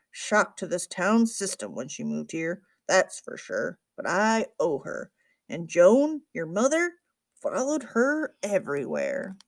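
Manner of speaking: lightly voiced crusty librarian, reminiscing; a hint of gruff old man, grudging respect; grumpy old librarian.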